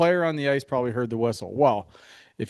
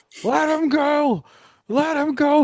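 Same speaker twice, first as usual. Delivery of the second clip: acted top-of-the-lungs scream, very high, drawn out. Retelling screaming in the studio at a goalie fight: reenacting screaming at top of lungs. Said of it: "I'm screaming at the top of my lungs".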